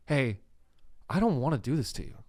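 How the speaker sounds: lightly voiced, softly apologetic kidnapper; a hint of a reluctant, polite captor; Todd. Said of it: "That's how Todd talks".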